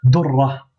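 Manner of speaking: Durra with the r held and doubled; Durra, r doubled and insisted; stressed shadda. Shown as a demonstration. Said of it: "Donc, on insiste".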